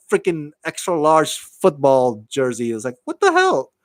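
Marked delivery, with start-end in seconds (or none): 3.0-3.7 high-pitched, laughing disbelief; incredulous. Real, not acted. Host reacting to the jersey request, incredulous. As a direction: squeal it in amused disbelief.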